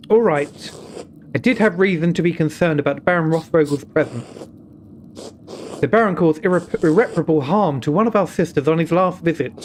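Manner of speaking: a nun cautioning the visitor, firm and grave; stern nun. Acted. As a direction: warn him like a careful abbey sister. Voices the nun in dialogue.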